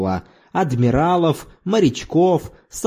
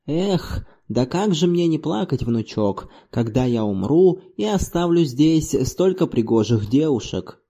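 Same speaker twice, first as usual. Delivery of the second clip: put-on mournful old man. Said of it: "А затем плакал".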